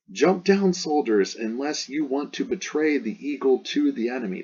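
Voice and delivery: high-pitched rallying call, lightly shouted; acted shouted order. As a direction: urge reluctant troops on. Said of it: "I would say he shouted".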